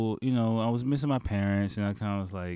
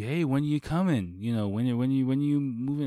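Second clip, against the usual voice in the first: giddy boss; 5 semitones higher, 4 dB louder than usual. Retold or imitated. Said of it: "he seemed really giddy".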